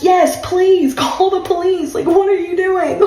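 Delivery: high, disbelieving retort; high-pitched incredulous yes please, call them. Retold or imitated. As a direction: toss it back in disbelief. Retold reply, pitch way up.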